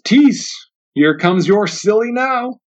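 drawn-out taunt, slow on now; mocking porch man. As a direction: sneer it at the boss, lingering on now. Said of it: "one of the men on the porch says".

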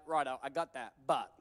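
reluctant Moses. Acted. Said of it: "Moses is like".

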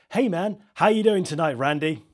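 high, loud, upbeat DJ greeting; bright on-air host hype; radio DJ voice. Acted.

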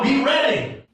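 punched out as a charge; firm command. Shown as a demonstration. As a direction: tell your neighbor plainly and firmly. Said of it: "look at my eye and tell him".

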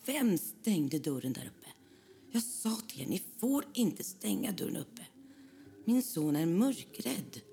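mild mock scolding of the friends; angry scolding. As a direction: tell the friends off like an angry mother. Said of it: "och är så arg".

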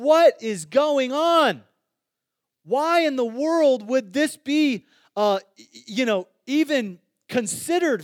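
slow, loud, high cry of disbelief. Real, not acted. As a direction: stretch it out, baffled and loud. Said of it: "preacher exclaims in disbelief".

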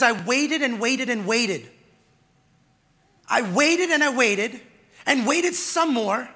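drawn-out repeated waiting; slow, weary reading. Retold or imitated. Preacher reading the psalmist's waiting aloud, slow and weary. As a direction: let each waited hang, slow. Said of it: "It says".

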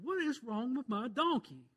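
mock fury at a stubborn animal; infuriated. Preacher voicing furious Balaam at his donkey, mock exasperated. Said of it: "Balaam is infuriated".

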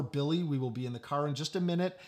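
mild, retold calm under pressure; very calm dad. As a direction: soothe patiently, imitating an unruffled father. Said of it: "very calmly saying over and over".

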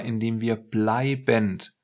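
"bleibend" slowed and weighted; stress on bleibend. Shown as a demonstration. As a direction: lean on "bleibend", draw it out. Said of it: "die Betonung liegt auf bleibend". (Betonung auf „bleibend“, langsam und gewichtig)

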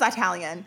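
"Italian" with a long "eye" at the start; mother's pronunciation. Retold or imitated. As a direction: say "Italian" as mom's "eye-talian". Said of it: "She says".

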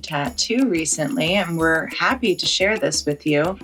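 friendly, even sponsor read; host-read ad, measured and composed; podcast promo read. Real, not acted. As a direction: tell listeners about an offer, smoothly and conversationally. Reads a promotion over music.

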